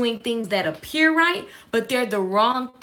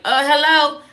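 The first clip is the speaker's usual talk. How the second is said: sassy complaint; 2 semitones higher, 6 dB louder, slower than usual. Retold or imitated. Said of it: "walked up to the rock star like".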